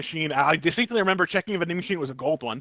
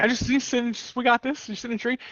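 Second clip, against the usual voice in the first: goofy mock voice; 7 semitones higher than usual. Retold own reply, put-on.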